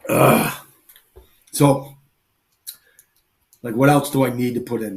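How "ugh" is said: short voiceless grunt of effort; groan. Real, not acted. Host pausing before getting back to the bag, groaning. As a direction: let out a brief rough "ugh". Groan during a long pause.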